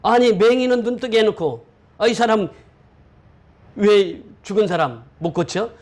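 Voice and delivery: mock-incredulous jeer, lightly acted; mocking sarcasm. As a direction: put on a sarcastic, questioning taunt. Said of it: "비꼬는 거잖아요".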